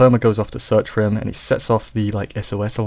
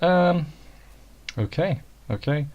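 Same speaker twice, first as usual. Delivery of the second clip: bemused surprise; 7 semitones higher than usual. Retold or imitated. Reacting to sudden plane scene.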